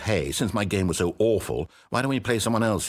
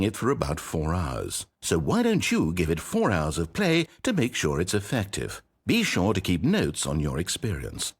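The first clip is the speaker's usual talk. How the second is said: narrator voice. Acted. Narrator voice of the game.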